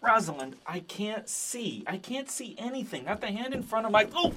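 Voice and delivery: words squeezed out past tears; choked up. Acted. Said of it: "He sounded all choked up and tight".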